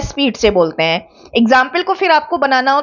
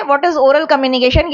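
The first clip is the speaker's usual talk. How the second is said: slow dictation; much slower than usual. Shown as a demonstration. Teacher dictates a question slowly.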